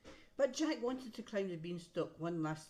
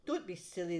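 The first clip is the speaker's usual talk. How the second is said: wife's scolding; 4 dB louder than usual. Acted. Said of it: "the giant's wife said".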